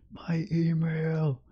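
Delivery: slow, breathless whisper; slow whispered groan. Real, not acted. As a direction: hush it like a secret slipped out. Hiding exposed email on stream.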